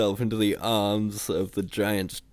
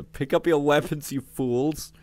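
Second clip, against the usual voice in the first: higher-pitched, angry order; exasperated screech; 7 semitones higher, 3 dB louder than usual. A narrator's reading. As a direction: scold useless underlings. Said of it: "screeched Visor".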